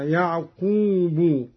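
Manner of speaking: يعقوب said slowly as "ya'quubu". Shown as a demonstration. Teacher showing Qalun's reading, damma on the ba of يعقوب. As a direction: end يعقوب on a short u. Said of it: "قرأ قالون برفع الباء".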